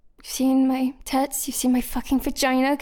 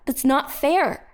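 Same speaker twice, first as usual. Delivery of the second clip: slow whiny protest; 4 dB louder, slower than usual. Acted. Protest against the search.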